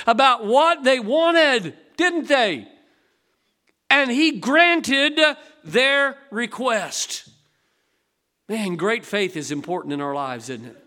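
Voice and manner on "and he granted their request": very slow, deliberate stress; slow emphatic delivery. Acted. Preacher to congregation, very slow emphatic close. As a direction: land each word slowly.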